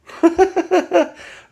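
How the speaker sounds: a bright burst of high laughter. Real, not acted. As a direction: laugh off the self-pity. Laughing at his own drama.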